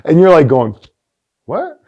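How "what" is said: much higher, laughing disbelief; surprised laughing what. Retold or imitated. Reacting to odd plan.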